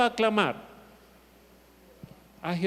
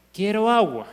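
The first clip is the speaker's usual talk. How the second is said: retold child's louder demand for water; a child's insistent whine, louder; 5 dB louder than usual. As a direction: say it louder, the third time asking. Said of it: "ya la tercera vez".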